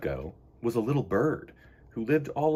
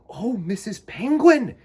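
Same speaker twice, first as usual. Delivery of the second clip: high, loud, slower cry; little bird crying out; 7 semitones higher, 8 dB louder than usual. Acted. Choco calling to Missus Penguin, high and loud. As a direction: call out eagerly. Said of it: "he cried".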